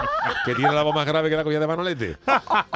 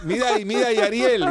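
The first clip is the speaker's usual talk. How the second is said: eager urging; 6 semitones higher, 4 dB louder than usual. Acted. Urging Ariel to look.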